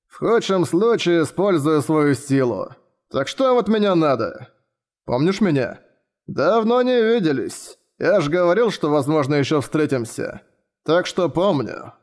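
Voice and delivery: slow, sleepy lazy drawl; a lazy man who can barely bother. Acted. Lazy figure speaking.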